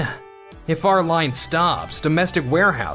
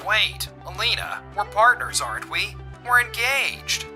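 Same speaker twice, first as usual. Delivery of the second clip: higher-pitched appeal to fiancée; desperate pleading; 6 semitones higher, 4 dB quieter than usual. Acted. Man begs his fiancée to remember they're engaged, desperate pleading. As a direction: plead as it slips away.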